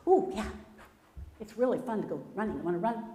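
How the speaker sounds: Rabbit, bouncy and quick; excited little rabbit voice; eager rabbit. Acted. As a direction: rattle off the invite eagerly. Rabbit invites running.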